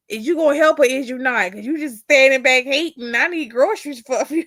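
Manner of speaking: mock demanding. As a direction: lightly mimic someone pestering for help. Voices the woman demanding groceries.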